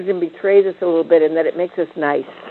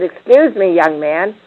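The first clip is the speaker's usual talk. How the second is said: a touch louder, stern scolding; firm rebuke; 2 semitones higher, 5 dB louder, slower than usual. Retold or imitated. Mother finally setting a boundary with her son, firm. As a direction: put him in his place, firmly. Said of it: "and finally she said".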